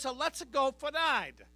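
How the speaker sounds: mild mock Italian accent of a mother; mother's Italian accent. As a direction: put on Mama's Italian accent lightly. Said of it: "She has an accent".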